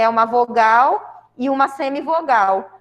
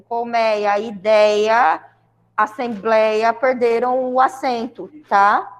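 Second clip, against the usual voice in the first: usual speaking voice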